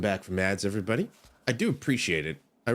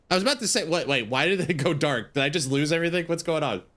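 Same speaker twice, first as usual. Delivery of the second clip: higher-pitched, startled questions; startled confusion; 6 semitones higher, faster than usual. Real, not acted. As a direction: react in sudden alarm, voice raised in pitch. Game screen suddenly goes dark.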